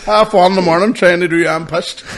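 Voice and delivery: loud, high, laughing through the words; cracking up at the memory; real helpless laughter. Real, not acted. Laughing at drunk message.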